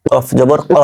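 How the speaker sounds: "কফ" and "ক" with back-of-throat q; deep qaf pronunciation. Shown as a demonstration. Teacher drilling the letter, uvular q in "কফ জবর ক". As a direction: make both k sounds of "কফ জবর ক" uvular. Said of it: "যদি ক উচ্চারণ না করেন".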